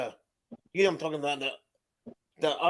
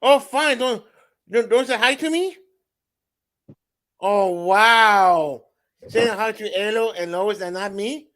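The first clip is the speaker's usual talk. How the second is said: louder, playfully hurt protest; mock offended; 5 dB louder than usual. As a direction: ham up being snubbed. Pretending to be snubbed by viewer.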